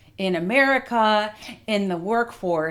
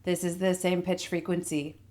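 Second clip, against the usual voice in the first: back resonance. Shown as a demonstration. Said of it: "as I use further back resonance".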